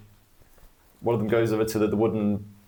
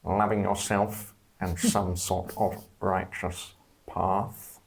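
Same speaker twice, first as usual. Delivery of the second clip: serpent voice. Acted. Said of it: "the serpent voice".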